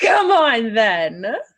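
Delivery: loud, menacing, creepy taunting laugh. Voicing a character who taunts approaching enemies: laughing menacingly. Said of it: "she's gonna laugh".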